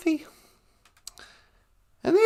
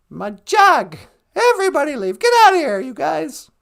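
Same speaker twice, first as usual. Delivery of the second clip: shooing a crowd; 5 dB louder than usual. Shown as a demonstration. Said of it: "tell that whole mob of angry whatevers".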